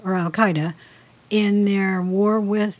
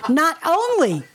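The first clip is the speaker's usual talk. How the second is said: amused, voice lifted high; laughing through the words; 6 semitones higher than usual. Real, not acted. Laughing at joke.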